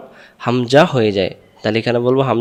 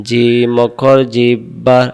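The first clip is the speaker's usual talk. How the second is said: slow recitation. Shown as a demonstration. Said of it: "আমি দুইবার বলি".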